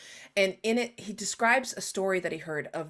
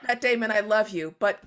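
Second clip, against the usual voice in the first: exasperated rebuke; 2 semitones higher, 4 dB louder than usual. Retold or imitated. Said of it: "And I'm like".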